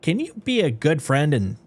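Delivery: emphatic indignant employee venting; dramatic note reading. Acted. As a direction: read the complaint out as an outraged staffer. Reads the note in character.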